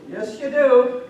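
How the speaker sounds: high, loud insistence; loud arguing. Acted. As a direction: throw the accusation back forcefully. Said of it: "they started getting loud".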